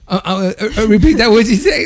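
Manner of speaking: high, fast, distracted mumble of a guy texting; mock distracted texter. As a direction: play the guy half-listening while texting.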